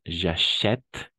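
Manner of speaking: "J'achète" ending crisply on the t sound; silent final E. Shown as a demonstration. Teacher showing learners the ending, "J'achète" with final e silent. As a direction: say "J'achète" as zha-SHET, no vowel after t. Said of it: "La E al final igual acá no pronunciamos".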